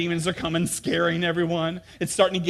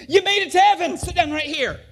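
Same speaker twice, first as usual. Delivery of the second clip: high, louder fake cheerful announcement; sly false prophet; 12 semitones higher, 6 dB louder than usual. False prophet fooling a blindfolded kid, high and bright. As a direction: trick him with a bright welcome.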